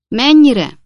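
high, loud shouted question; loud, high-pitched query; calling out. A narrator's reading. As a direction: call it across a distance. Pickwick calls across the garden.

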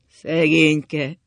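loud, drawn-out moan of pity; wailing lament.

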